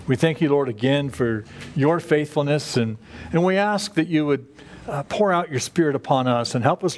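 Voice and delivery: earnest spoken prayer to the Father; gentle pastor's prayer; closing prayer. Acted. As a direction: pray it sincerely, closing the sermon.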